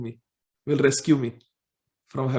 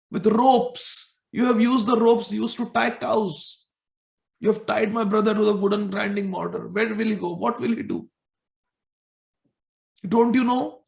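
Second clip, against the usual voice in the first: higher-pitched protective reproach; loving anger; 5 semitones higher than usual. Acted. Balram reproaches Mother Yashoda for tying Krishna, higher. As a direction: scold a mother out of love for a brother. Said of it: "in his loving anger".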